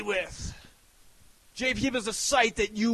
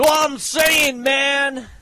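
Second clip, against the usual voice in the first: shouting; 3 semitones higher, 5 dB louder, slower than usual. Real, not acted. Hype rant.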